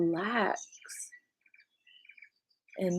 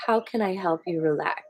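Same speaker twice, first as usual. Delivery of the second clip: caring offer; faster than usual. Shown as a demonstration. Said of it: "a better way to say it is".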